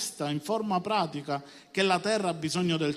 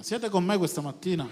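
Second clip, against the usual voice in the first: raised, more forceful question; rousing call to congregation. Real, not acted. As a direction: call out for a livelier amen. Repeats question after few amens.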